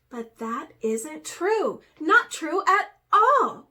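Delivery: slow, rising to a loud high protest; desperate cry. A narrator's reading. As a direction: plead in despair. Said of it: "cried Raven in despair".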